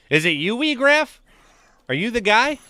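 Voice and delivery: "Weegraph" squeaked high and loud with a rising question; high, loud playful accusation; mock surprise. Real, not acted. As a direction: act amazed that "Weegraph" is the guy. Teasing a viewer.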